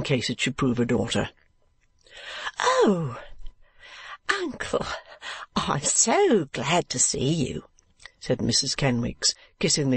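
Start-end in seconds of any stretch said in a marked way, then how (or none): 2.6-7.6 very high, slow, fawning welcome; gushing wife. A narrator's reading. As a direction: gush over the rich uncle. Wife greets rich uncle gushing.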